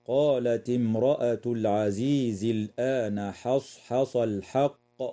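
light, unemphatic ḥā in "حصحص" and "الحق", full heavy ṣād and qāf; careful recitation. Shown as a demonstration. Teacher citing the verse for listeners, careful light ḥā. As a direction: recite with both ḥā sounds in "حصحص" kept thin and light. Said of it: "مما يجب البيان فيه بجانب الترقيق".

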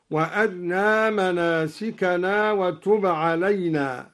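وأرنا with the ra's vowel snatched short and the ra light; shortened thin ra. Shown as a demonstration. Teacher shows al-Duri's reading, shortened light ra in وأرنا. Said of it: "باختلاس الراء ويتعين عليه ترقيقها هكذا".

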